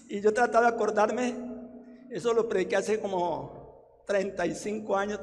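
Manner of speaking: normal talking voice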